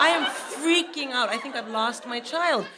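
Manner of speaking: high-pitched retold panic; comic panic. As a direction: play up a mother's panic. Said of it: "I start panicking to the point".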